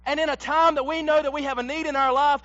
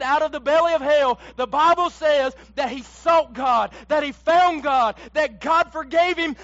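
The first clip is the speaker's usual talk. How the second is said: preaching crescendo; 4 dB louder than usual. Acted. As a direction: drive it home from the pulpit. Preaching climax, louder.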